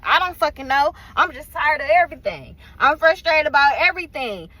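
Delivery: mildly heated self-talk; fed-up outburst, lightly pushed; frustrated venting. Retold or imitated. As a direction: vent it with a touch of anger. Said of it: "I'm frustrated, I'm mad".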